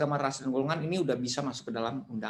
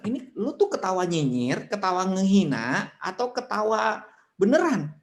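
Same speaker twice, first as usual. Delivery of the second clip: puzzled question; 5 semitones higher, 3 dB louder than usual. Acted. Confused reader questioning a laugh.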